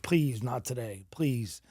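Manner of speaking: slow, soft, subdued begging; retold tearful plea. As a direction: plead quietly and slowly. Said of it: "And I start crying".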